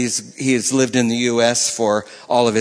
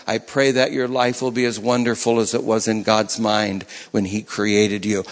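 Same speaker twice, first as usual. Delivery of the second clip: prayerful blessing; 4 semitones lower than usual. Shown as a demonstration. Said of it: "I pray that over people".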